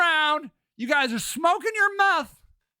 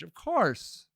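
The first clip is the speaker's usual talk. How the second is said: a lower, mocking echo of "Of course."; mock Jade echo; 9 semitones lower, 6 dB quieter than usual. Host mocking Jade's catchphrase, lower mock echo. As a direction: parrot the guest's "Of course." in a dull, deeper put-on voice.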